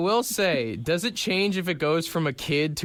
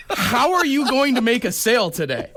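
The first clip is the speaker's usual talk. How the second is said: laughing disbelief; 9 semitones higher than usual. Retold or imitated. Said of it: "And I was like".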